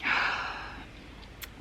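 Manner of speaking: breathless, sighing between words; out of breath. Real, not acted. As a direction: catch your breath while talking. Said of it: "I'm so out of breath already".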